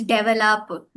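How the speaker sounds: "develop" as "DEV-el-up"; common variant. Shown as a demonstration. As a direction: stress the first syllable of "develop". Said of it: "people call it as".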